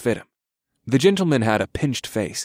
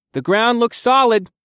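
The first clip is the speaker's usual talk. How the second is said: meek inspector voice; 13 semitones higher, 5 dB louder, slower than usual. A narrator's reading.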